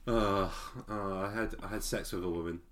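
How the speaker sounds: smug, showy boasting, half laughing; mock bragging. Mocking Charlie bragging to the priest, smug and laughing. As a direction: play the lad bragging about his conquests. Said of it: "or is he just full on bragging".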